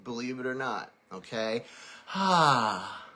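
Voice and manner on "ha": quick yawning exhale; yawn sigh. Shown as a demonstration. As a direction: let it out like a yawn. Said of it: "that's what I did".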